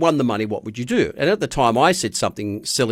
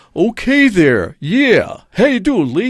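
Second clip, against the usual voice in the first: husky, raised voice at an unhurried pace; 8 semitones higher, 6 dB louder than usual. Retelling a phone call, imitating Seth Riggs' husky voice. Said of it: "Can you do an impression?".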